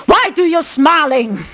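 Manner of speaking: mildly confrontational mimicry; imitated aggression. Retelling the man confronting Marcel at the checkout, imitated aggression. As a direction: act out a stranger's challenge. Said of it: "This way".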